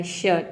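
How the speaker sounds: "शर्ट" with the R left silent. Shown as a demonstration. Teacher models a silent letter for learners, "शर्ट" without R. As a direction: say "शर्ट" as "shuht", no R. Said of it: "आर को silent रखना है".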